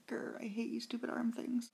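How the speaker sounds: whispered mock growl of annoyance; grumbly whisper. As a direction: grumble it under your breath. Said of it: "I was always like".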